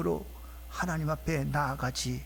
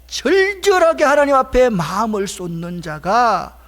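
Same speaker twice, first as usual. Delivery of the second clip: loud, raised pulpit cry; forceful preacher, pitched up; impassioned preaching; 5 semitones higher, 12 dB louder than usual. Real, not acted. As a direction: pour out the words with fervour.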